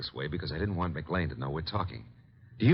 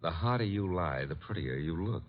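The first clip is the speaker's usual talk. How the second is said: teasing flirt; 3 dB quieter than usual. Acted. Detective flirts while pressing a suspect.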